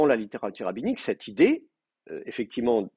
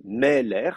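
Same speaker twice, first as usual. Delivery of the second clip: Meler with the weight on ME, light -ler; stress on first syllable; 3 semitones higher than usual. Shown as a demonstration. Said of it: "l'accent est sur la première syllabe".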